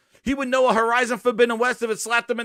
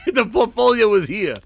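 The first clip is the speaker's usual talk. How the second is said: mock echo. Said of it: "So I love the fact that the portfolio's".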